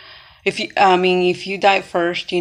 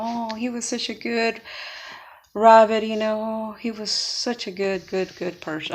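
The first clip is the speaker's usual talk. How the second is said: softer, lightly imitated funeral lament; a touch of tearful grieving, played; mock mourning; 2 semitones higher, 3 dB quieter than usual. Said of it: "everybody's crying".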